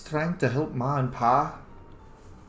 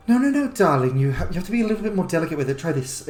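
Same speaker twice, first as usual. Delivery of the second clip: a hint of a higher, coaxing tone; lightly voiced fox lady; 5 semitones higher, faster than usual. The fox varger correcting him, lightly voiced coaxing. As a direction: coax him gently, darling. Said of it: "she goes".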